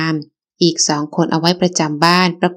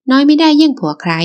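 much higher, louder defense; indignant shout; 8 semitones higher, 4 dB louder than usual. Acted. Mother shouting to defend her daughter against her husband.

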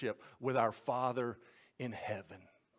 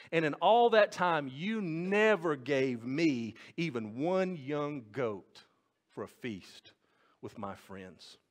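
mild resentful reply. Acted. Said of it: "but he replied".

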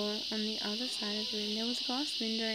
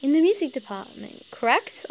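higher, louder man on the phone; 4 semitones higher, 11 dB louder than usual. Acted. Company man checking the caller's job, in a higher loud voice. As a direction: ask it briskly like a busy clerk. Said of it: "asked the man".

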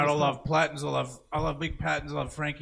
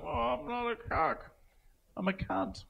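a higher, prissy mock retort; smug internet guy; 9 semitones higher, 5 dB quieter than usual. Friend mocks an internet troll's comeback, prissy and smug. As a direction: lightly voice a smug troll correcting someone. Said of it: "some people will be particularly like".

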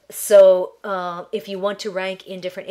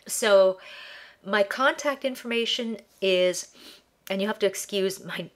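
stuffed-up nasal voice from allergies; nasally, blocked by ragweed allergies. Real, not acted. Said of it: "excuse my nasally voice".

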